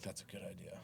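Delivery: breathy retold whisper; a boss whispering agreement. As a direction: hush it like a secret aside. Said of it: "he whispers".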